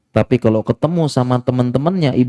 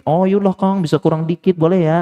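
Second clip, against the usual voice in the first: flirty bargain; 6 semitones higher than usual. Retold or imitated. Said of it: "Digoda-goda dikit".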